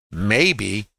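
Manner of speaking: "maybe" drawn out slowly; stress on maybe. Real, not acted. Trader cautioning students it's all you've got, stressed "maybe". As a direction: lean on "maybe", stretching it out. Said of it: "I have to stress the word maybe".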